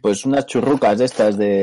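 chewing while talking; mumbling through snacks; mouth full. Real, not acted. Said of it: "qué estabas comiendo".

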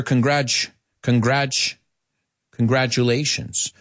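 "congrats" ending in ch, built up into "congratulations"; ch sound drill. Shown as a demonstration. Teacher building the word for learners, "congratulations" with a clear ch. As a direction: say "congrats" as con-gratch twice, then the whole "congratulations". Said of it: "we love that T U, future nature".

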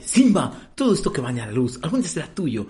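a hint of the actor's solemn tone, near normal pace; lightly voiced Mufasa. Friend repeats the Mufasa line, a light hint of the role. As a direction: quote the king's line almost plainly. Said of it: "Habla con este tono".

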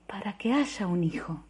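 soft unvoiced whisper; hushed, weary whisper. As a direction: say it under your breath. Woman arguing, whispered.

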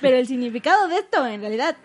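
put-on northern Mexican accent. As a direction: tell it like a northern Mexican, half-hearted. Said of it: "Te lo cuento como norteño".

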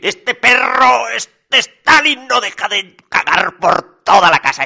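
exasperated rant. A narrator's reading. Rasputín complaining about the dog Stalin, loud exasperation. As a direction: stretch the first words in outrage.

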